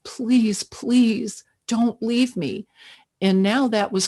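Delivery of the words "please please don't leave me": mild slow pleading, a bit higher; slow inner plea. Retold or imitated. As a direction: plead slowly in your head. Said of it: "I'm thinking to myself".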